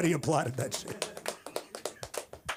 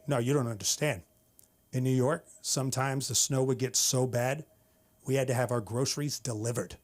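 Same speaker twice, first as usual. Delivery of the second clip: a hint of a lowered, grave voice; lightly voiced tough wife; 2 semitones lower than usual. Wife explaining New York winters, lightly mock-tough. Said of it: "She dropped her voice to say that".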